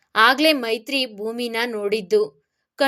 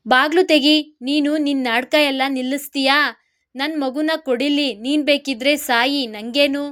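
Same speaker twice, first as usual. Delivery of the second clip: heated outburst; 2 semitones higher than usual. Acted. Husband fed up with the wife's drama, angry outburst. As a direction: snap at her in a rage. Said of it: "ಆವೇಶದಲ್ಲಿ ನುಡಿದ ಮಹಿತ್".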